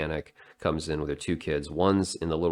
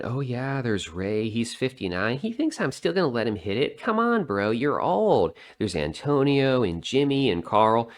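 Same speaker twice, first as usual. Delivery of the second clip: higher-pitched mock woman's voice; mimicked boastful woman; 5 semitones higher than usual. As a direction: lightly voice a woman bragging down her list. Mimics woman bragging about her men.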